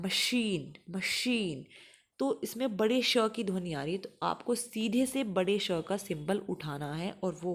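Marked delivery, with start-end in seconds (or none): 0.0-1.6 मशीन said slowly with a clear sh; teacher models मशीन; careful machine. Shown as a demonstration. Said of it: "पहले इसको pronounce करना है".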